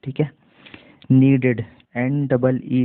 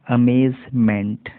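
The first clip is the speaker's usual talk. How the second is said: slow teaching repeat; much slower than usual. Shown as a demonstration. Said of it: "slow repeat of word".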